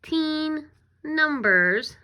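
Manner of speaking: put-on slow, stretched teen numbers; drawn out slowly. Shown as a demonstration. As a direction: stretch each word for the class. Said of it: "You know that word now".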